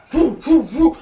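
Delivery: punchy imitated huffs, evenly spaced; mock angry huffing. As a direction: puff out a childish mock tantrum. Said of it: "like, angry".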